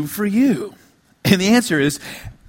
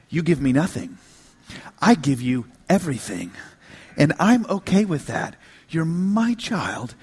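tender God's voice; 4 semitones lower than usual. Acted. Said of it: "and God says".

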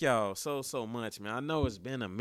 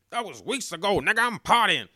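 excited; 6 semitones higher, 10 dB louder than usual. Real, not acted. Celebrating the draft pick.

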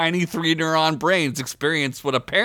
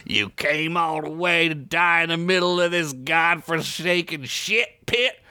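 smug villain; 3 semitones higher than usual. Acted. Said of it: "Rick said with a smile".

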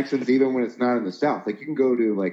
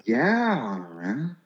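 OC surfer drawl; 4 dB quieter than usual. Retold or imitated. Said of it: "those guys in O C going".

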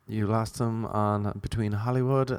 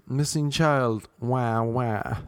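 mock crying parent; much slower than usual. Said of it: "you're like".

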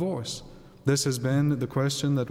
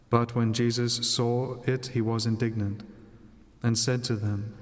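Gospel reading. Acted. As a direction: read scripture aloud at Mass.

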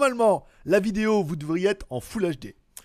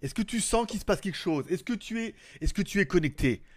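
seance medium. Acted. Calling the spirit as marabout.

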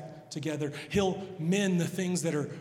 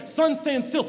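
Joshua's bold command; 11 semitones higher, 9 dB louder than usual. Acted. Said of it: "when Joshua prays".

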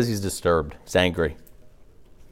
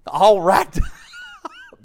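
mummy voice; 4 dB louder than usual. Pretend. Acting out the bound dead man.

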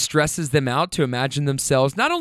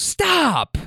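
higher, sharp protest; laughing reprimand to husband; mock scolding; 13 semitones higher than usual. Wife scolding her husband, mock shocked.

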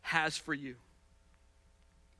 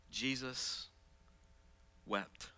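hushed reading; 6 dB quieter, much slower than usual. Acted. Pastor reading the verse to the church, hushed. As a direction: let the two words fall quietly.

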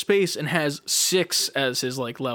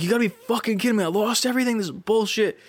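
higher-pitched retold exasperation; mock-angry complaint, raised in pitch; mad; 6 semitones higher, faster than usual. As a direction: vent in disbelief, pitched up. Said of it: "And then I got mad".

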